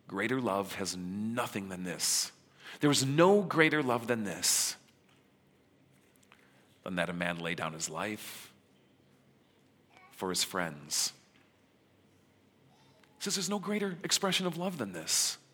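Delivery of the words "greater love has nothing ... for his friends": tender quote. Retold or imitated. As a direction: speak it gently, like a promise to close friends. Jesus speaks to his disciples.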